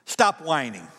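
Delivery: firm, commanding order. Shown as a demonstration. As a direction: give it as a blunt command. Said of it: "in kind of a commanding way".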